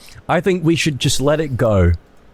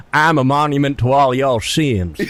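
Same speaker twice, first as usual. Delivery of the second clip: lightly voiced villain quote, laughing through it; half-hearted impression cracking up; awful Michael Rooker. Friend finishing the villain quote, laughing at his bad impression. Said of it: "That's my awful Michael Rooker impression".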